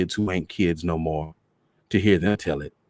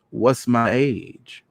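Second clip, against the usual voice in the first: very slow, pointed question; mother slowly challenging her children; slow challenge; 4 semitones higher, much slower than usual. Acted. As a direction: drag it out, daring them.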